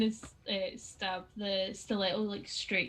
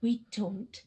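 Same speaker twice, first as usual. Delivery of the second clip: stern confrontation; 4 dB louder than usual. Acted. Zia to the person that started all this, stern confrontation. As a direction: make the point hard, with pauses.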